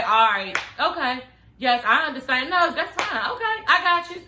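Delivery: a breezy "I understand" to end the talk; calm polite brush-off. Shown as a demonstration. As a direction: agree politely and move on. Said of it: "And I just say".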